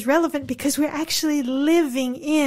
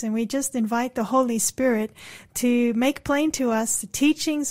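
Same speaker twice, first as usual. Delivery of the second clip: prayer. Acted. Leads the on-air prayer.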